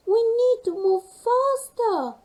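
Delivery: high, loud urgent shout; panicked cry. Acted. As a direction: hurry everyone along in alarm. Panic on melting ice.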